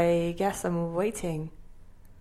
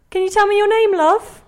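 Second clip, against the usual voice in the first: raised voice; 12 semitones higher, 9 dB louder than usual. Acted. Stranger calling to confused gran.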